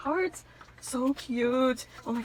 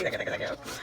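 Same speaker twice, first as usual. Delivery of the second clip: whisper; 5 dB quieter, much faster than usual. Real, not acted. Breathless thanks over gift.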